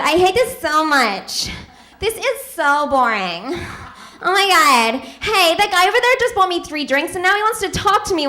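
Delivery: lightly voiced, whiny-bored LA party girl; bitchy LA club girl. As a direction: complain like a club girl to her friends. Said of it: "these L A women".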